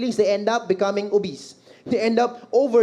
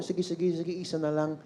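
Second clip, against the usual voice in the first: very soft, placating parent; low, hurried-hush mother voice; hushed giving in; 4 semitones lower, 9 dB quieter than usual. Acted. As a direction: give in quietly to quiet the child. Mother gives in to child.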